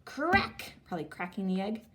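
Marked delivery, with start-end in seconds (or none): 0.0-0.7 excited. Shown as a demonstration. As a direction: crack called out high. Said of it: "now let's do our action words".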